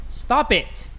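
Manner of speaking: restrained first warning; a short telling-off at normal volume; firm but contained mock reprimand; mock scolding. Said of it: "Had to scold my third child".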